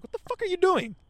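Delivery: "What the fuck are you doing?" yelled high and hard; angry shout. Retold or imitated. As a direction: scream it at the shadow like a furious worker. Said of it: "I was fucking angry".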